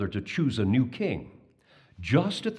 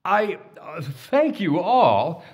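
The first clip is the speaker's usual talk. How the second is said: lightly voiced Babar; 8 semitones higher, 6 dB louder, slower than usual.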